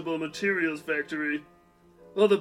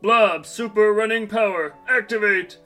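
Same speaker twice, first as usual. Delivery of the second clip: heroic power call; 3 semitones higher, 4 dB louder than usual. Acted. Hero calls out power activation.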